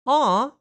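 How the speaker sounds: high, loud "aw"; mimicked high reaction noise; imitated "aw". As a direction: pitch it well up, a sudden loud coo. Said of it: "then Beth was like".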